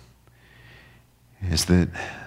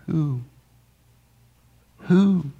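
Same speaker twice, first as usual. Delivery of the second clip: who rising much higher; questioning who; 9 semitones higher than usual. Acted. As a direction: lift the word who in wonder. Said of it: "He's asking".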